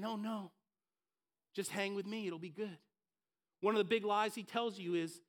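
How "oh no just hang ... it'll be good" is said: 1 coaxing devil. Acted.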